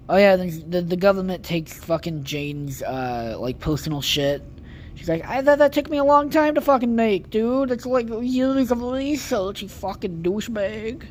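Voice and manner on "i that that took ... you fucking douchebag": outraged rant. Retold or imitated. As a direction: squeal in outrage at losing years of work. Jane yelling at the government.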